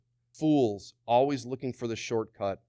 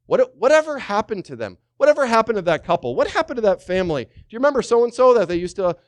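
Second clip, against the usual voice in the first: wondering aloud; 9 semitones higher, 6 dB louder, faster than usual. Retold or imitated. Voicing people wondering about goners.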